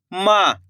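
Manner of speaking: "माँ" with its vowel held long; drawn-out vowel. Shown as a demonstration. Teacher showing whose sound comes out, "माँ" with lengthened vowel. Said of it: "खींच के निकल रहा".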